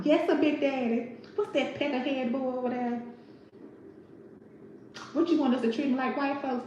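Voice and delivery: lightly voiced Big Daddy; acting out Big Daddy. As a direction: play the plantation owner mockingly. Acting out movie dialogue.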